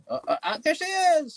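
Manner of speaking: light up as the dog appears; high happy dog-greeting voice; delighted at the dog. Real, not acted. Dog finally appears on camera.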